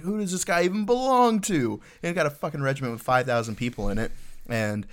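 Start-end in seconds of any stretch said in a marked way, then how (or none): 0.0-1.7 high exasperated mock squeal; a boss flailing, much higher; frantic sergeant major. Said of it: "He's like".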